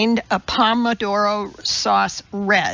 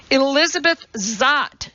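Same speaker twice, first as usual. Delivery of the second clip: barked; 5 semitones higher than usual. Acted. Elizabeth barking her name at the producer. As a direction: snap your name back at him. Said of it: "she barked back".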